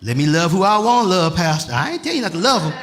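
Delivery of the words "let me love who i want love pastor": mock church member talking back to Pastor; congregation pushing back. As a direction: play the members saying mind your business. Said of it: "I see y'all looking like".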